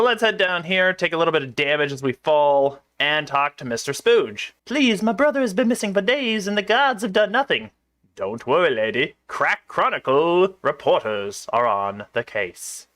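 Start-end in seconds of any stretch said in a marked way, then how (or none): 4.6-7.7 high-pitched put-on pleading voice; pleading townsperson. Acted plea to reporters. 8.1-12.9 low, put-on reporter voice; slow down and reassure in a low newsman voice; reassuring reporter. Reporter answers pleading woman.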